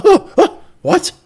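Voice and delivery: high, loud startled yelp; hammed-up surprise at the question; mock startled. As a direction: jump as if caught out. Imitating Helly's startled reply.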